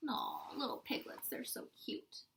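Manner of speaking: soft, breathy aww; cooing. Real, not acted. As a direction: coo over something cute. Cooing at cute piglets.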